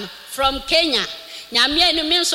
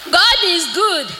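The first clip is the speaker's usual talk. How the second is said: laughing, then shouting thanks; joyful laugh. Real, not acted. Woman thanking God before the church, laughing joyfully. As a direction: burst into happy laughter and praise.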